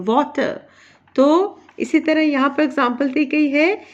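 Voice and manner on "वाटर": वाटर with the weight on वा; stress on first syllable. Shown as a demonstration. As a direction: say वाटर joined up, stressing वा and letting टर fall away. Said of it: "इस तरह बोलते हैं". (वाटर को जोड़कर, वा पर ज़ोर देकर)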